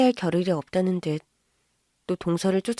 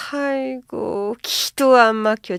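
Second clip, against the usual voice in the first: exasperated disbelief; 3 semitones higher, 4 dB louder, much slower than usual. Acted. Mother-in-law exasperated by the warning.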